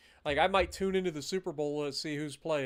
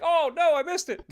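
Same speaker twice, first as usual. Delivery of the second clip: mock dismay; 8 semitones higher, 6 dB louder than usual. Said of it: "And then you're like".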